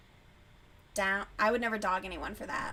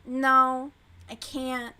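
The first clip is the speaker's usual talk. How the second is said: louder mock refusal of the proposal; mocking the heroine; 3 semitones higher, 10 dB louder, much slower than usual. Mocking the book's heroine refusing, loud. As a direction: imitate her loud dramatic no. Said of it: "this bitch is like".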